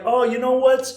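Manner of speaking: milk the moment for the crowd; excited showman. Retold or imitated. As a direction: piano man goads the Southerners, excited. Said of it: "And he's like".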